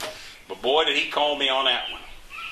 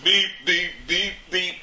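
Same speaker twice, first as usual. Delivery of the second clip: mock horn beeps; 3 semitones higher, slower than usual. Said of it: "they got horn signals now".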